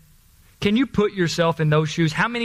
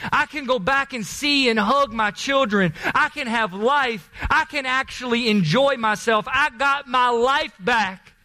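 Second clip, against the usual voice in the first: overjoyed Naaman; 4 semitones higher than usual. Acted. Naaman overjoyed after healing.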